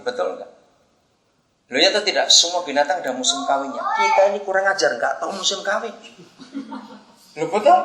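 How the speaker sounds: normal talking voice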